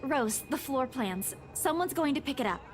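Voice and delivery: soft, faint dialogue; shaken, brushing off. Acted. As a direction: wave off help weakly. Shaken narrator waves off help.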